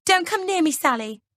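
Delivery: high, loud frightened cry; shrieking. A narrator's reading. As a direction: cry out as if threatened. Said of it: "she shrieks".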